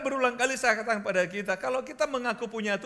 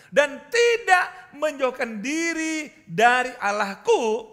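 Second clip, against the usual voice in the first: preaching at full force; 4 semitones higher, 7 dB louder than usual. Acted. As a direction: proclaim it to the congregation.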